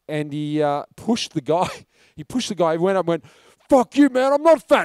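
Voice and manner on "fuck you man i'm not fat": high, loud, indignant retort; acted angry outburst. Insulted actor turning on the drunk heckler, acted angry outburst. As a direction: imitate an insulted man finally blowing up. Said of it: "his inner action hero came out".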